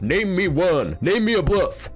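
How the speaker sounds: loud, very high-pitched demand; exasperated shouting. Acted. Poker coach daring anyone to name a bluff, exasperated shout. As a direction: yell it as a hammed-up challenge.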